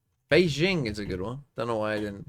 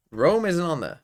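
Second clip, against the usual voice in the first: loud, higher disbelief; surprised; 6 semitones higher, 8 dB louder than usual. Real, not acted. Player surprised Rome isn't counted, loud disbelief. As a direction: sound baffled it's missing.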